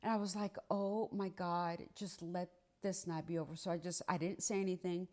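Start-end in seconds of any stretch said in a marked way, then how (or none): 0.7-3.6 weary plea. Retold or imitated. Wife to herself after the fight, weary plea. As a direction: say it under your breath, drained.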